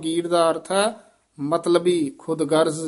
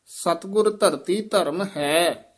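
ਸਤਿਗੁਰ ਧਰਤੀ ਧਰਮ ਹੈ, resting on ਹੈ; full pause after ਹੈ; slower than usual. Shown as a demonstration. Teacher showing the resting point, pause after ਹੈ. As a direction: draw out ਹੈ, then rest. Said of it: "ਇੱਥੇ ਵਿਸਰਾਮ ਹੈ".

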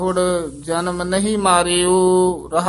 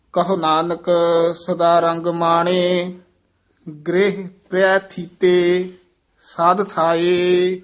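scripture recitation; 3 dB louder than usual. Acted. Teacher reciting Gurbani for learners, measured chant-like reading. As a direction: hold the long vowels, pausing between phrases.

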